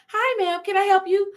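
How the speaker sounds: high, sweet service voice; chirpy employee. Retold or imitated. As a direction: greet like a cheery shop assistant. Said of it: "One of the other employee ladies came up to me".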